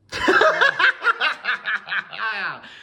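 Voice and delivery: high cackling laugh; witch cackle. Pretend. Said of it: "that was my witch cackle".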